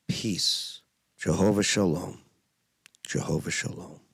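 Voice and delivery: hushed personal prayer. Real, not acted. Prays the names of God.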